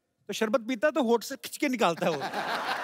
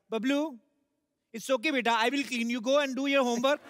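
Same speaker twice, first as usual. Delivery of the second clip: sweetly fake, higher English for the guests; put-on sophistication; 3 semitones higher, much slower than usual. Mother to Bablu in front of guests, affected sweetness. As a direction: act the oh-so-refined mother, drawing out the last phrase. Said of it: "बड़ी sophisticated हो जाती हैं".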